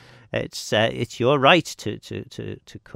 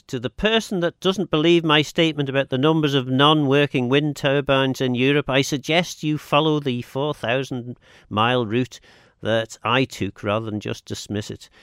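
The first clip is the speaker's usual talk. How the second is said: reading out a text; 4 semitones higher, 4 dB louder than usual. Acted. Host reads a listener text.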